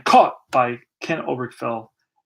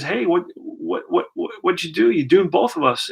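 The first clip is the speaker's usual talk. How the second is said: stammering, higher-pitched mock disbelief; mildly acted bewildered protest; 4 semitones higher than usual. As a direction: play a stung frog protesting, lightly hammed-up. Voices stung frog confronting scorpion.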